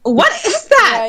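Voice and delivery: slow, stretched, appalled question; drawn-out outrage. Acted. Customer appalled at the drink cup, outraged. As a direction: stretch each word in acted disbelief.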